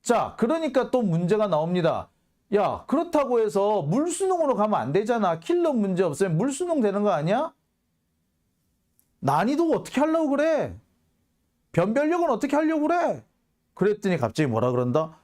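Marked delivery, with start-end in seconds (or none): 2.6-13.2 raised, incredulous quoting of critics; mock critics' complaint. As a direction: mimic the worried critics, pitched up high. (높은 목소리로 흉내 낸 비판)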